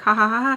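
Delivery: spelt-out fake laugh; imitated polite laugh. Trying to keep the vibes, imitated fake laughing. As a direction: fake a ha-ha to keep things light.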